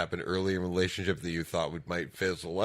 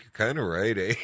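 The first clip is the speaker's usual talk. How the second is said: Canadian-sounding Minnesota accent, lightly mimicked; imitated Minnesota accent; 3 semitones higher than usual. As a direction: retell it in a mock Minnesotan accent. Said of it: "sounds like the stereotypical Canadian accent".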